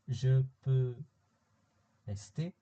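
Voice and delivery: "Je peux rester?" ending on a clear rise on "rester"; teacher models a yes-no question by pitch alone, the voice climbing on "rester"; rising question tune. Shown as a demonstration. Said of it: "a question that's asked using intonation".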